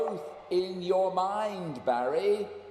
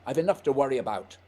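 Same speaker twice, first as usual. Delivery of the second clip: louder, impatient scolding; stern rebuke; 2 semitones lower, 7 dB louder, faster than usual. Acted. Scott scolding Barry for coming, louder and impatient. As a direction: scold him firmly.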